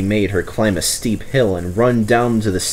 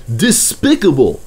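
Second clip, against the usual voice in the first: spluttering; 4 semitones higher than usual. A narrator's reading. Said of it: "spluttered Henry".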